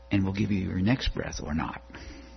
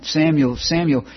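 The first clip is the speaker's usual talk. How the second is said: calling out; 8 semitones higher, 10 dB louder than usual. Retold or imitated. Voice calling boy at night.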